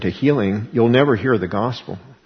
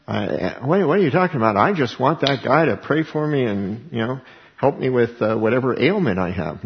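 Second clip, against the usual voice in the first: mock baffled objection; 2 semitones higher than usual. Preacher mimics a listener who only wants prayer for an ailment, mock baffled objection. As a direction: play a put-out healing seeker. Voices someone wanting only healing.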